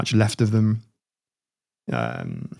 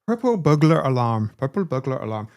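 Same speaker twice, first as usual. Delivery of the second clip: practising a shaky grip on Scottish; Scottish accent; 3 semitones higher than usual. Shown as a demonstration. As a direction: warm up a Scottish accent on a test phrase. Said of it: "I'm gonna do a Scottish accent".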